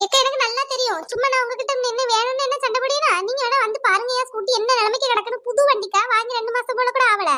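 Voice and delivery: a hint of an indignant neighbour complaining; scolding neighbour. Neighbour scolds cow owner over her broken scooter, indignant.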